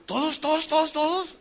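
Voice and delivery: mocking the doubters with high, repeated "todos"; incredulous disbelief. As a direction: pitch each "todos" up in disbelief. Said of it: "así como diciendo". (imitando incredulidad, "¿todos?" agudo y repetido)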